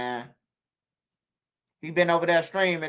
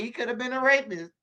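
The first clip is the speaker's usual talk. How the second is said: Trump impression; 7 semitones higher than usual. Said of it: "like Trump say".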